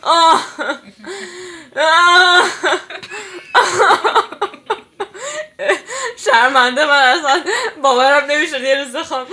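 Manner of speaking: tearful overwhelmed. Real, not acted. Emotional after singing.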